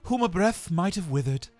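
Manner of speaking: an otherworldly spirit speaking gently; Ghost of Christmas Past. A narrator's reading.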